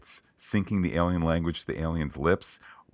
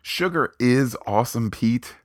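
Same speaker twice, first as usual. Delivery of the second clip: high, loud echo of the slogan; excited; 7 semitones higher, 4 dB louder than usual. Acted. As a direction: toss the slogan back with gusto. Echoes co-host's catchphrase back.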